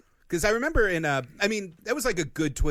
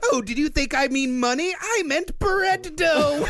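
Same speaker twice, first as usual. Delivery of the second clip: Joker voice; 11 semitones higher, 4 dB louder than usual. Acted. Acting Joker lines, laughing.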